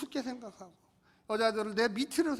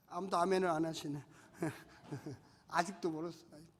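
usual speaking voice

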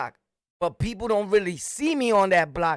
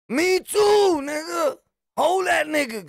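shouted comeback; 10 semitones higher, 3 dB louder, slower than usual. Retold or imitated. Shouted comeback to kid's mom.

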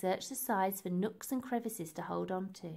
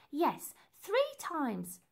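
slow repeated instructions; 6 semitones higher, much slower than usual. Acted.

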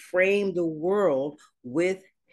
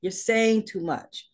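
God scolding; 4 semitones higher than usual. Retold or imitated. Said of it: "God is like".

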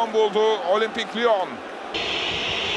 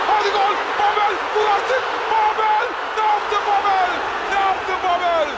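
excited commentator; 7 semitones higher than usual. Real, not acted. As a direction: beg the ball into the net. Near miss, commentator urging.

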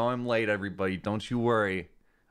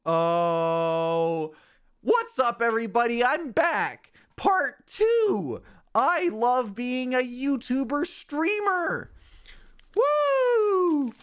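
much higher, whooping fake streamer; hammed-up hype with high woos; 12 semitones higher, 3 dB louder, much slower than usual. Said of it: "my new streamer voice".

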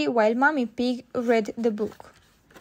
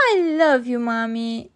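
louder start, falling away; lightly voiced loving little girl; affectionate Peppa; 5 dB louder than usual. A narrator's reading. Peppa tells Mommy her love.

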